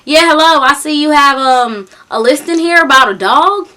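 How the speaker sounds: lightly mimicked country accent; thick country accent. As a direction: imitate a country man on the phone. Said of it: "he's talking a thick country accent".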